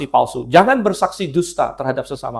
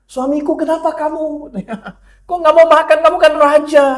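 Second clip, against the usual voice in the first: put-on coaxing a child; 10 semitones higher than usual. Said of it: "kayak terhadap anak kecil".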